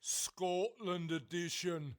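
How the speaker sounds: slow mock Scottish accent. Shown as a demonstration. Host adds the Scottish accent to the jingle. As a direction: drawl it out in a put-on Scottish accent. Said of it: "mildly offensive".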